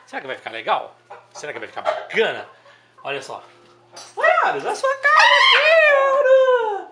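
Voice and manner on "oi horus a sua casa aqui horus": calling the bird. Real, not acted. Chamando o pássaro animado.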